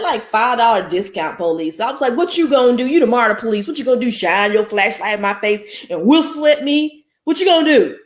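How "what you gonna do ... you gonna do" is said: mocking taunt. Mocking transit police retold.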